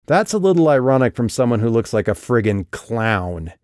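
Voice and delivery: building to a shout; voice rising. Acted. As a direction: start firm, end shouting. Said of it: "Calliope's voice rose as she spoke".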